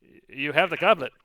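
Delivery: high, loud tiny voice; eager little voice. Acted. Lily spirit voice.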